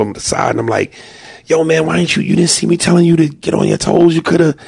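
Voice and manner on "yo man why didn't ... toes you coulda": scolding dad. Retold or imitated. Dad scolding son at the ride.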